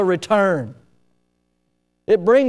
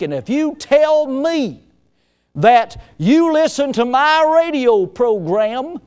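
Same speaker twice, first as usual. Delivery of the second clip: put-on country accent; 4 semitones higher than usual. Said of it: "it sounded just like that guy".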